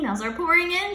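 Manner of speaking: high, loud shout; teacher shouting at the screen; alarmed shout. Acted. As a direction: shout from the computer. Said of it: "shouted Mister Cooper".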